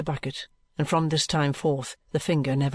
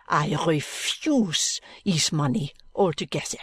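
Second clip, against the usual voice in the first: proud French maid; slower than usual. Acted. Maid's voice.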